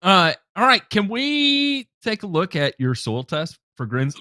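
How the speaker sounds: talking through hiccups; hiccuping between words. Real, not acted. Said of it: "I'm sorry, I got the hiccups".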